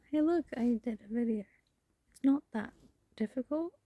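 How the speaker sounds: breezy, dismissive brag. Acted. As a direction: brush it off lightly. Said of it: "No, that was mean".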